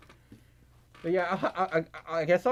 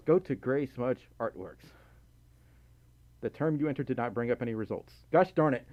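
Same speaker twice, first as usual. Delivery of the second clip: normal talking voice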